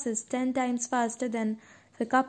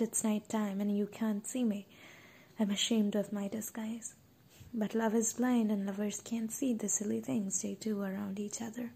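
ashamed hushed whisper; 6 dB quieter than usual. Acted. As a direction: whisper it, embarrassed to be seen. Ashamed, hiding at night.

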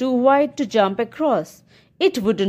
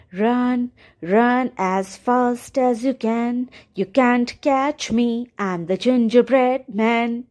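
sweet singsong; slower than usual. Acted. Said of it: "he sang in a sweet voice".

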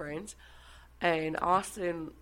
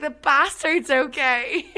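laughing through a quote; 8 semitones higher, 11 dB louder, slower than usual. Retold or imitated. Laughing while quoting herself.

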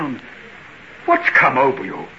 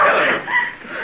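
startled cry. Acted. Lanyon startled by Helen's arrival.

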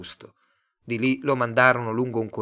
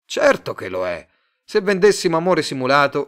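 louder, smooth pushy salesman; salesman Tate; 6 dB louder than usual. Acted. Tate pitching his love firm to Simon, louder slick salesman. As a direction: sell it to him, eager and slick.

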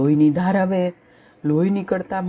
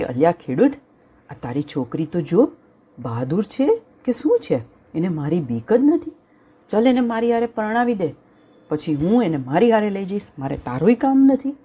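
bossy lion; 5 semitones higher than usual. Acted. Lion demands the girl.

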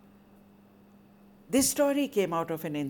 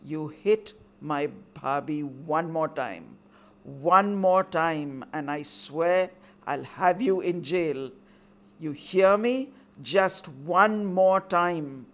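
slow, steady and firm, growing louder; controlled command; 6 dB louder, slower than usual. Acted. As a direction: pin him down with a cold warning. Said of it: "in a voice of controlled command".

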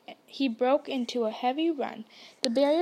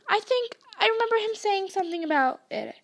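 teasing; 8 semitones higher than usual. A narrator's reading. Twin teasing.

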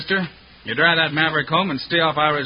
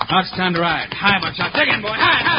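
rising, louder riding calls; urging horse; 5 semitones higher, 3 dB louder than usual. Acted. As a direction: spur the horse on. Spurring horse to ride.

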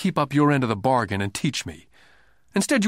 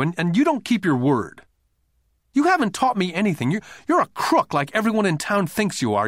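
put-on high-pitched, upset little boy's complaint; nearly tearful outburst; 7 semitones higher, 3 dB louder than usual. A narrator's reading. Nine-year-old confronting a grown-up boss, upset and near tears. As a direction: pile up the accusations in a high, wounded voice. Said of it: "nearly in tears".

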